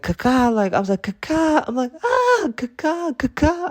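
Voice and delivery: very high, loud squawk; hawk cry. Retold or imitated. The attacking hawk, a very high, loud squawk. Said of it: "it was like".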